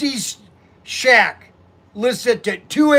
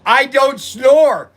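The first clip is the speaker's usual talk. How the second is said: slow indignant denial; 4 semitones higher, 6 dB louder, much slower than usual. Retold or imitated. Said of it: "I go".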